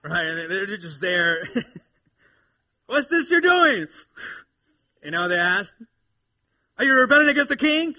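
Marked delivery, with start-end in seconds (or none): 2.9-3.9 loud, high, drawn-out mocking question; hammed-up villain ridicule; scoffing villain. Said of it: "I almost picture these guys with". 6.8-7.9 hammed-up villain ridicule; scoffing villain. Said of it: "I almost picture these guys with".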